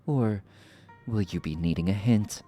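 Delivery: regal, mocking sorceress voice; theatrical sorceress villain. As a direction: purr the lines like a smug villain. Voicing villain sorceress dialogue.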